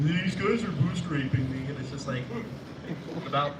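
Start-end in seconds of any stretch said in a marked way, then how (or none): 0.1-1.7 high, slow, loud yell; imitating the roommate yelling at his monitor, high and loud; mock gamer scream. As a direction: whine it like a gamer losing. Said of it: "Or you just scream".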